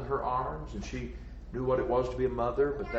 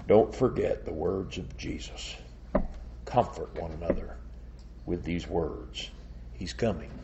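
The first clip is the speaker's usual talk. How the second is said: reassuring; 6 semitones lower than usual. Real, not acted. Preacher consoles the congregation after climax.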